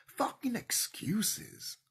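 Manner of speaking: slow, breathy whisper after the shout; hissed whisper. Real, not acted. Repeating the rant to viewers in a whisper.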